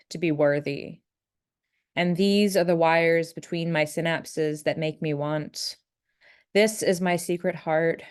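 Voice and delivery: slow, measured poem delivery; unhurried recital of a poem in an even tone; poetry reading. Acted. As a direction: read each line slowly and deliberately, pausing between images. Reads own poem aloud.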